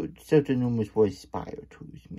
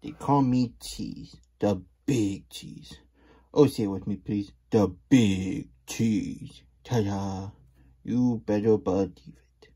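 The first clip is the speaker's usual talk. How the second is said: boastful Big Cheese; 4 dB louder than usual. Acted. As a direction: drag out the name like a proud showman. Reading the Big Cheese book aloud.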